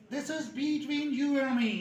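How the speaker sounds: between said slowly with a long ee; slow model sentence. Shown as a demonstration. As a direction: say each word slowly, clearly. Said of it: "correct sentence model". (धीरे और साफ़, उदाहरण की तरह)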